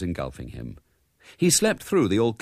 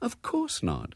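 high, soft motherly reply; gentle, unruffled mother; placid; 5 dB quieter, slower than usual. A narrator's reading. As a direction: answer mildly, quite untroubled. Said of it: "said Missus Brown placidly".

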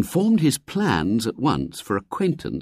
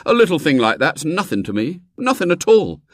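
put-on brash boyish promise; a boy showing off to her; confident boy; 9 semitones higher, 4 dB louder than usual. A narrator's reading. William boasting.

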